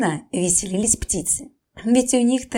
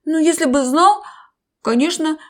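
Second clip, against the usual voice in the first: whimpering; 3 semitones higher, 4 dB louder, slower than usual. Acted. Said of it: "прохныкал крокодил".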